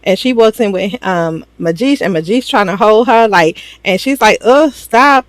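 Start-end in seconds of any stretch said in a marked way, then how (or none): 4.4-5.2 higher-pitched irritated brush-off; mock annoyance. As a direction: act out pushing off an unwanted hug. Voicing woman rejecting an embrace.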